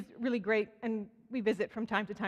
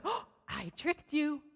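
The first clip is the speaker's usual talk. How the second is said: teasing gotcha; 6 semitones higher, slower than usual. Retold or imitated. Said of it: "all of a sudden she's like".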